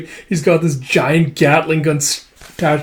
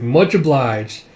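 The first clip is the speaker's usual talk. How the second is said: slow thanks; much slower than usual. Acted. Slow character reply.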